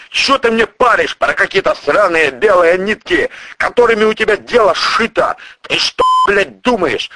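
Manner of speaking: high, loud, swearing tirade; a crime boss chewing out his prosecutor; furious boss. Acted. Boss keeps raging.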